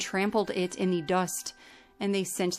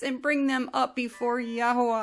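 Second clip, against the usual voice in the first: weeping lament; 3 semitones higher than usual. Acted. Yaakov mourning Yosef in sackcloth, weeping lament. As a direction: wail for a lost son. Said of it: "lifted up his voice in weeping".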